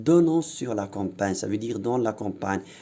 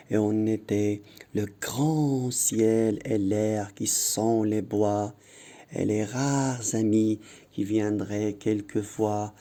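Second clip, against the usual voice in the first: poem recitation. Shown as a demonstration. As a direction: recite it carefully for the class. Reads the poem aloud. (récitation lente et appuyée du poème)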